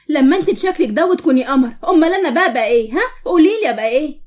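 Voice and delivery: mocking, pointed questions; taunting. Nour belittles Qamar's looks over her name, taunting. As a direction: needle her with pushy questions.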